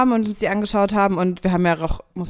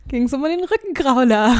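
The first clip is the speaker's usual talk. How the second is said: giggling through the words; laughing; 6 semitones higher, slower than usual. Real, not acted. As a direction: laugh while you say it. Laughs while telling the story.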